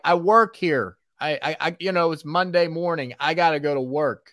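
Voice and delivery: high, flustered protest; exasperated. Retold or imitated. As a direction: plead your case, high pitched. Protesting to cop retold.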